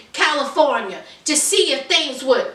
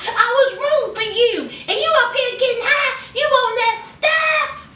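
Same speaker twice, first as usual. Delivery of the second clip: exasperated scolding; 8 semitones higher than usual. Real, not acted. Scolding Scott on the show.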